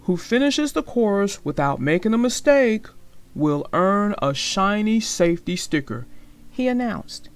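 lively storybook read-aloud with voiced characters; story narration. A narrator's reading. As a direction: read it like a bedtime picture book for kids. Reads a picture book aloud.

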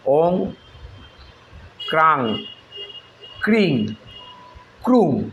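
ক্রাং ক্রিং ক্রুং each said slowly and apart with a falling end; spelled-out syllables. Shown as a demonstration. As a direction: sound out each seed syllable for learners. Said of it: "সবই কিন্তু কয়রফলা আকার". (প্রতিটি বীজ আলাদা করে উচ্চারণ)

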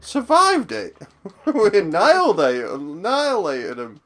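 excited cheer. Real, not acted. Celebrating surviving the fight.

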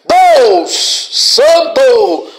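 loud drawn-out cry to God; shouted invocation. Real, not acted. Preacher calling on holy God during deliverance, shouting. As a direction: belt out each word forcefully.

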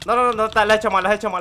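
loud rapid mocking cries; excited yelling. Real, not acted. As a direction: yell at the rival's mistake. Opponent messes up. (gritos de burla)

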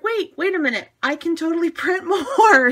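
high, stopping short, then laughing at the idea; excited realization. Retold or imitated. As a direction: catch yourself, then delight. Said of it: "then it's like".

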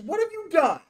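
high, tense demand after the scream; angry. Real, not acted.

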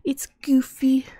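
breathy amused whisper; hushed goofy aside. Real, not acted. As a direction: whisper it like a joke to yourself.

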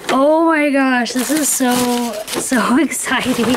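drawn-out, excited gushing; thrilled, stretching the words out. Real, not acted. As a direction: gush slowly in real excitement.

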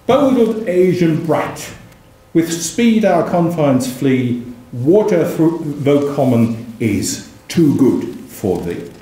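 slow, grand declaimed verse; poem reading. Acted. Lecturer reciting the poem's abuse, slow and grand. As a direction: roll out the insult like a pamphleteer.

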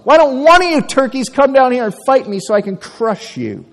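high, loud bellowing challenge; Goliath's taunting scream. Acted. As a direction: yell it across the valley at the enemy. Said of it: "as he screamed at the top of his lungs".

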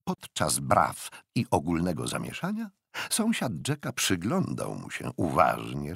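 plain reading voice

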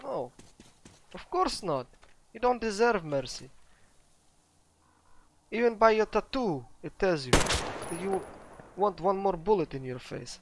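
put-on Russian accent. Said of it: "Sometimes I forget to speak with the accent".

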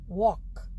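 वॉक as one open syllable, no L; careful isolated model of वॉक; silent L. Shown as a demonstration. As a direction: drop the L in वॉक. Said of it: "इसमें L silent है".

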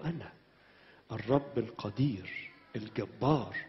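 low, slow, solemn divine voice; deep majestic God speaking to David. Retold or imitated. God speaks in retold scene. (صوت الرب المهيب البطيء)

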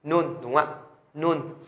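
"Nun" with n at both ends; đọc mẫu. Shown as a demonstration. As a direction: sound out "Nun" as a model word. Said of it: "mình cũng sẽ đọc cái này là N luôn". (đọc mẫu "Nun", âm n đầu và cuối)

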